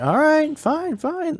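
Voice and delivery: high sing-out of reluctant acceptance; mock grudging agreement. Guests giving in to their host's warning, mock high-pitched agreement.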